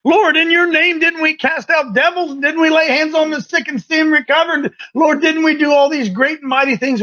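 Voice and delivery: lightly voiced boastful believers; pleading churchmen. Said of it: "those men in Luke said".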